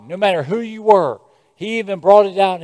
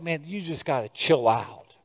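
dismissive; 6 semitones lower, 10 dB quieter than usual. Retold or imitated. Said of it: "folks are just like".

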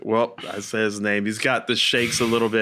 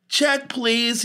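laughing joke; 9 semitones higher than usual. Retold or imitated. Wanting out of awkward breakfast.

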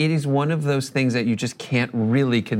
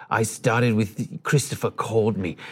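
Hans Zimmer; 4 semitones lower, slower than usual. Retold or imitated. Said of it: "I don't know if he had an accent".

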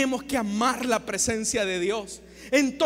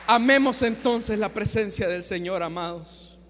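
gentle exhortation; 4 semitones lower than usual. Real, not acted. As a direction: ease down from the climax, fading. Cierra el clímax con exhortación suave. (exhortación serena que se apaga)

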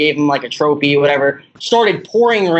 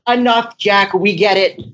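exasperated New York parent voice; thick New York accent, scolding; 3 semitones higher than usual. Retold or imitated. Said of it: "they have that thick New York accent".

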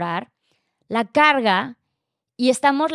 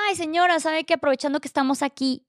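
higher-pitched, courteous opener; calm, polite approach; 5 semitones higher than usual. Retold or imitated. Daughter-in-law calmly approaches his mother to clear things up, polite. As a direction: retell a polite approach in a lifted voice. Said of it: "Yo súper tranquila vengo con la mamá".

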